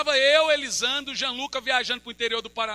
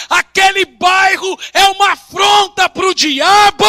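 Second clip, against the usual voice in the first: shouted sermon, slow and louder; fiery preaching; 8 semitones higher, 17 dB louder, slower than usual. Acted. Preacher declaring the church an affront to the devil, shouting. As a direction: preach it full force, pounding each phrase.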